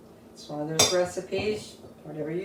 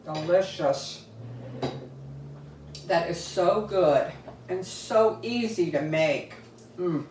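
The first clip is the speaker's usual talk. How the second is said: talking through a mouthful of squash; words muffled by a bite of food; mouth full. Real, not acted. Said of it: "talking with my mouth full".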